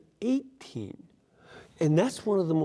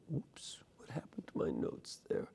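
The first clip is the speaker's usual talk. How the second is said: hushed, hurried aside to oneself; muttered aside; 14 dB quieter than usual. Real, not acted. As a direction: mumble it quickly under your breath. Aside on losing place in notes.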